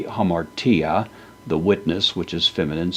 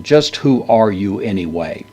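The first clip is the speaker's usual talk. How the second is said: mock interrogation. Shown as a demonstration. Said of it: "sense of almost an interrogation".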